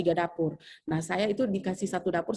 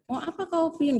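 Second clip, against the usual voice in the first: stern senior teacher; 9 semitones higher than usual. Retold or imitated.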